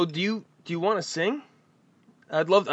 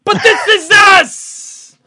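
drawn-out, high, loud mocking echo; 13 dB louder, much slower than usual. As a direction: stretch it out and mock the caller's catchphrase. Host mock-echoes caller's phrase.

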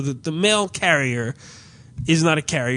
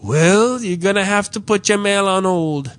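put-on higher, lightly Caribbean-accented reply; Caribbean clerk; 4 semitones higher than usual. Clerk telling customer what to do, light Caribbean imitation. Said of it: "like, Caribbean dude who's kinda".

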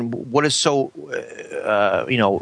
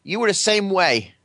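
put-on grumpy old man; 6 semitones higher than usual. Scolding co-host in put-on voice.

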